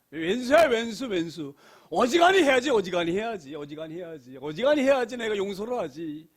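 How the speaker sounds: mock fed-up venting, bursting out, then easing off; acted exasperation. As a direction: grumble like someone pushed too far. Voices resentment at someone hard to forgive.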